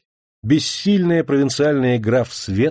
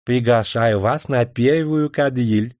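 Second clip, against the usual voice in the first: gallant cavalier; slower than usual. Acted. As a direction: greet the ladies with a bow. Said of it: "изображая собою ... любезного кавалера".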